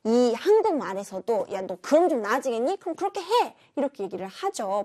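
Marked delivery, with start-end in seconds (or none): 1.5-3.6 sarcastic snap. Shown as a demonstration. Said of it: "반어법일 수도 있어요".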